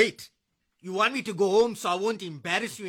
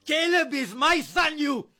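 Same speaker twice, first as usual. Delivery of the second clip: angry yell; 5 semitones higher than usual. Acted. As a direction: claim your son in a rage. Husband yells about his son.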